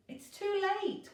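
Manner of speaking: high, loud despairing cry; cried. A narrator's reading. Virgo crying out before the collision, despairing. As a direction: wail it as the trains close in. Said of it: "cried Virgo".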